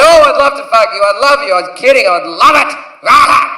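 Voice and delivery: a hint of a wild "Rah" to laugh it off; comic back-pedals after an offensive line, loosely crazed; mock crazy backpedal. Comic to girl, covering his rude remark, lightly mock crazed. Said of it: "I went".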